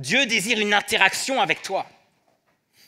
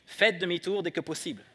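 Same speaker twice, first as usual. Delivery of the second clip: calm GPS voice; 5 dB quieter than usual. Retold or imitated. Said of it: "cette petite voix tranquille".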